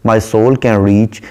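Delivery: slow, measured poem reading; unhurried English verse reading; poem recitation. Shown as a demonstration. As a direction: recite the line slowly, savouring it. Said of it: "पोएटस कहती है".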